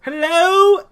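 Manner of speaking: loud, high call into the dark; yelling hello. Retold or imitated. Mocking Jim calling into dark places, with a loud, high yelled hello. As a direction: call it out loud into an empty room. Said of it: "He loves hellos".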